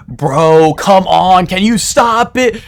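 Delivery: high, whiny, slowed plea; mock the annoyed victim begging; whiny annoyed player. Victim begging the killer to stop, mimicked in a high, whiny voice. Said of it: "they're like".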